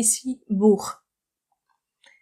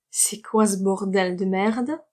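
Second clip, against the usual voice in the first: example line. Shown as a demonstration. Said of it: "renforcer cette expression".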